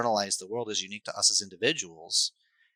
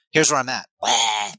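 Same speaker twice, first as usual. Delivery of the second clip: put-on kid wailing; 2 semitones higher, 7 dB louder than usual. Kid's honest meltdown acted out.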